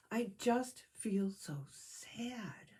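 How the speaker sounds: slow, whispered sob; a small bear crying into the phone; tearful. Acted. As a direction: barely get the words out through tears. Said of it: "said Pooh between sobs".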